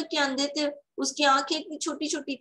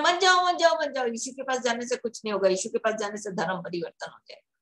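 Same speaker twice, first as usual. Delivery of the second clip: mock urgent warning; faster than usual. Mimicking people who stop others going to Jesus, urgent mock warning.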